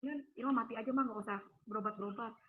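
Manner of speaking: soft, low retold resignation; subdued sorrow, voice sinking; close to tears. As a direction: quietly give up, pleading with mum. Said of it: "Saya kalau ingat-ingat nangis ya".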